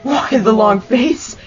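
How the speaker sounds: mocking taunt. Skeleton mocking the beaten bully, loud taunts. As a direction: toy with him.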